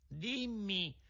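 high, soft, slow bird voice; pigeon calling down. A narrator's reading. Pigeon calling down to the crying puppet, high and soft. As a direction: call down gently from the sky.

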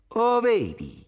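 high, loud outburst; furious shout. A narrator's reading. Tommaso snaps at Irene's answer, shouting furiously. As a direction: shout it in sudden fury. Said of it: "gridò".

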